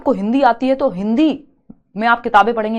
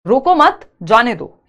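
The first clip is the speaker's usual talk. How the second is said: raised "रुको मत", then a drop on "जाने दो"; lightly acted angry order, louder at the start; mildly angry demo; 5 dB louder, slower than usual. Shown as a demonstration. Teacher showing students how anger sounds, mildly angry. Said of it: "गुस्से में भी कही जा सकती है".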